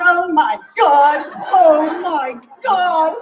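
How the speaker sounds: slow, drawn-out ecstatic oh my God; Jewish moan. Acted. Performer demonstrating the Jewish moan with a slow oh my God. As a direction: savor each oh my God. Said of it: "The Jewish moan".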